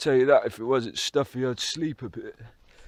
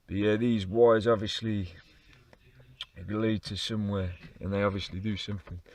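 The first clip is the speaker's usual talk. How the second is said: running out of air; 2 semitones lower than usual. Real, not acted. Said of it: "bear with my voice".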